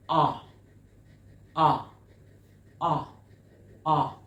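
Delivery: "ah" said loud and separately, open vowel; short O sound. Shown as a demonstration. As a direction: demonstrate "ah" as an isolated, forceful vowel. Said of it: "Look at my mouth".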